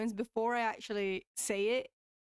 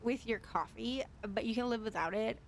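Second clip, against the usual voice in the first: a hint of American rich girl; sarcastic rich girl. Streamer teasing about a scone, sarcastic rich girl. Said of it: "sarcastic rich girl voice".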